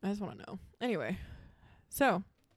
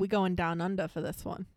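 badly faked Aussie accent; clumsy mock-Australian. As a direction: attempt an Australian accent and miss. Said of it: "That was the worst Australian accent".

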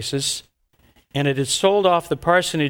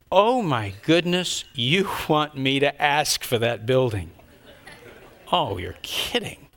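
dawning dismay; slower than usual. Retold or imitated. Realizing what God wants.

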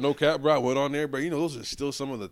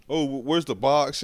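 mimicking mom; 5 semitones higher, 8 dB louder than usual.

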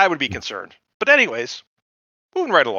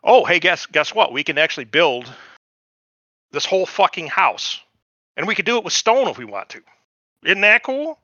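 mock boastful settler; 2 semitones higher than usual. Settler boasting to natives, lightly voiced and eager. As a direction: sell it like a proud salesman.

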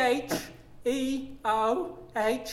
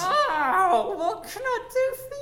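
flirty woman voice; 13 semitones higher than usual. Acted. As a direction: greet them like a coquettish lady.

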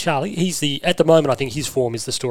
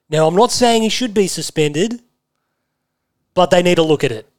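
Sam Edmund; 2 semitones higher, 4 dB louder than usual. Retold or imitated. Host parodying media's classic line, mock pundit. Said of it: "Sam Edmund does a little bit of this".

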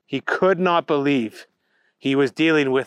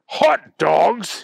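higher, indignant exclamation; incredulous shout; 7 semitones higher, 4 dB louder than usual. A narrator's reading. Bunny hearing Booger's idea, incredulous shout. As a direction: throw it back in disbelief. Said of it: "shouted the Easter Bunny".

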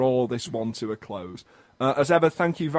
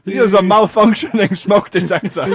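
Kony voice; 5 semitones higher, 9 dB louder than usual. Acted. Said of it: "can I stop doing the Kony voice".

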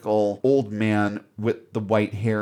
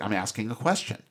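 quick, unfussed retort; matter-of-fact; 4 dB quieter, much faster than usual. Retold or imitated. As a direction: imitate a brisk, businesslike answer. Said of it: "that very matter-of-fact Kirk sort of way".

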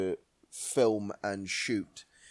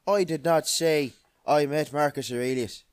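higher, louder declaimed movie line; film-quote impression; 5 semitones higher, 6 dB louder than usual. Podcaster quoting Gladiator to co-host, hammed-up film character.

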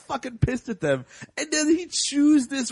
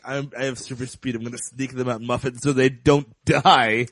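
low rabbit creature voice; 11 semitones lower than usual. Retold or imitated. Rabbit planning to sneak them muffins, in a low creature voice. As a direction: murmur the plan like a sly little creature. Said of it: "is like".

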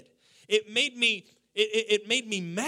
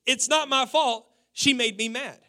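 put-on child's excuse; 3 semitones higher, 5 dB louder than usual. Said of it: "she said to me".

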